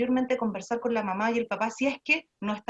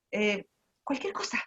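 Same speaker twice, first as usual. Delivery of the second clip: whispered aside; 4 dB quieter than usual. Real, not acted. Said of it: "whispered aside".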